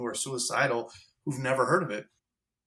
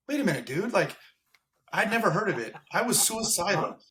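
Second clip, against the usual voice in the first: pitched higher, stunned and fed up; incredulous outburst; 5 semitones higher than usual. Retold or imitated. Telling the audience how he reacted to his tough coworker, higher, incredulous. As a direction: let the disbelief spill out, higher. Retelling his own disbelief, frustration.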